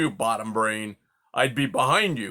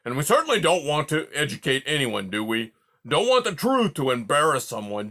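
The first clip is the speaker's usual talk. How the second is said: louder, huffy porcupine tirade; hurt old porcupine ranting at his friend; offended rant; 3 semitones higher, 6 dB louder than usual. Acted. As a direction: rant on, wounded and sarcastic. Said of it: "exploded Aerith".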